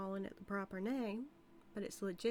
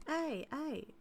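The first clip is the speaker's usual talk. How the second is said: mock warning; 6 semitones higher, slower than usual. Warning sheriff holding a weapon.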